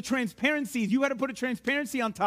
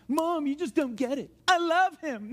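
lightly voiced child complaining higher; kid protesting; 4 semitones higher than usual. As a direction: plead like a frustrated kid to a mom. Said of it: "the kids, you know the feeling".

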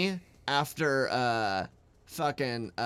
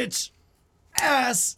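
muttered insults; 8 semitones higher, 5 dB louder than usual. Retold or imitated.

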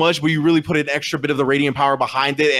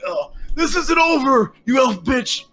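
higher, slow, shouted vow; vengeful orc threat; 9 semitones higher, slower than usual. Acted. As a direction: swear revenge on the elf. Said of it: "He's like".

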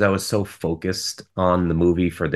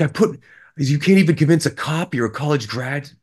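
higher mock-plaintive rant; a hint of a whining old man; mild imitation of the grandfather complaining; lightly voiced grandfather; 6 semitones higher than usual. Quoting the grandfather's lines.

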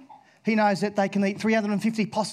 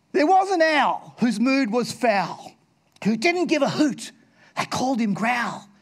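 poem recital; 2 semitones higher than usual. Acted. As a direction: recite the rhyme playfully. Recites rhyming owl poem.

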